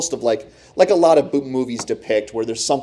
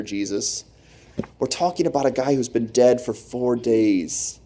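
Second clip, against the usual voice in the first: worried onlooker. Pretend. Imagined onlooker pleading with Jesus.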